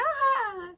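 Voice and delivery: high mock "ha" laugh; put-on high-pitched laugh; imitated laugh. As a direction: imitate a crowd's scoffing laughter. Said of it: "Os povos riam".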